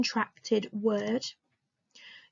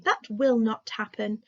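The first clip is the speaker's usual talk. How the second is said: careful, formal delivery. Shown as a demonstration. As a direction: say it properly and formally. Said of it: "in my formal voice".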